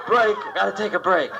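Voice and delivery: mock breathless smoker; out of breath. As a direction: wheeze out a plea to stop.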